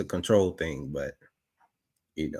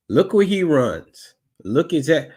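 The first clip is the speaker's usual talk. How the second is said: excited; 7 semitones higher, 4 dB louder than usual. Real, not acted. Commenter reacting to footage.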